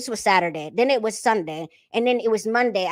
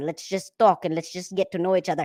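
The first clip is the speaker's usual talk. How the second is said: normal talking voice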